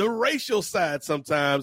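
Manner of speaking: normal talking voice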